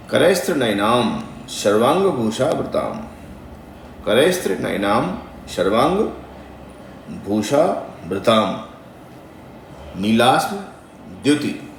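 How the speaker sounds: measured, chant-like recitation of a mantra; slow devotional Sanskrit intoning. Shown as a demonstration. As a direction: intone each syllable carefully like a priest. Recites verse slowly.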